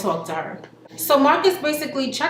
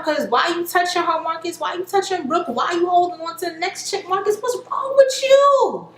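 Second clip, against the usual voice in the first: mock angry; 6 semitones higher than usual. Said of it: "she getting mad now".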